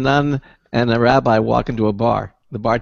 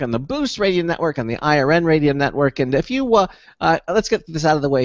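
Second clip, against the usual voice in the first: brisk-to-measured host's station read; radio show announcer; 4 semitones higher than usual. Real, not acted. Host telling listeners how to join the show, announcer delivery. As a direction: deliver the show's contact details like an announcer.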